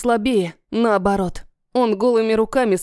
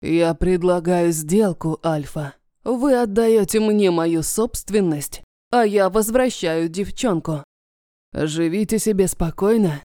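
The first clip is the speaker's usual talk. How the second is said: smooth villain voice; 3 semitones lower than usual. Acted. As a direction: bargain with silky menace. Dragon villain bargaining.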